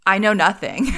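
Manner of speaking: mildly hammed-up, emphatic mimicry; animated catchphrase. Replying to husband's text with the catchphrase, playfully animated. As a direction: repeat the borrowed line with playful emphasis. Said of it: "And I would be like".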